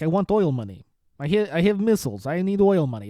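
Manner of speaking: badly faked Iranian accent; loose, unsure attempt at an Iranian accent; mock Iranian accent. Comedian imitating Joe's phone-call bit, mock Iranian accent. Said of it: "doing the accent".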